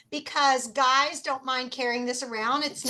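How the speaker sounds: breaking up on a bad connection; laggy video call. Real, not acted. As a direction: voice cutting out over video call. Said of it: "you're breaking up a little bit".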